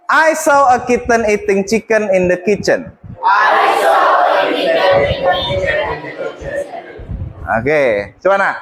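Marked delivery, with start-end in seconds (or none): 3.2-6.6 slow tongue twister with each word stretched; careful slow demo of the tongue twister; slow, exaggerated model. Shown as a demonstration. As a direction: lay it out slowly for the class. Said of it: "I want you to repeat after me".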